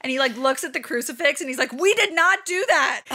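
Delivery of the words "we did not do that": stoned guy voice. Retold or imitated. Seth Rogen high at crucifix.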